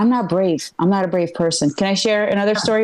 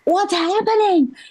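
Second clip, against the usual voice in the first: pitched way up, slow and scared; high scared question; 9 semitones higher than usual. Retold or imitated. To the police officer, high and frightened. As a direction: ask it frightened and small. Retelling own fright at cop.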